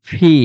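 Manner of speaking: ফি with lips pressed and air pushed out; corrected letter name. Shown as a demonstration. Teacher showing how to say the letter P. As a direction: blow air through ফি. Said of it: "দুইটা টুট একসাথে থাকবে".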